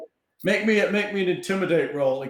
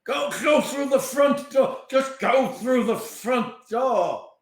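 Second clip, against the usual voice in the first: insistent shout; 7 semitones higher, slower than usual. Acted. Captive shouting answer.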